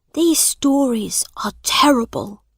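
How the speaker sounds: whispered to himself. A narrator's reading. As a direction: murmur it privately. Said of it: "he said to himself".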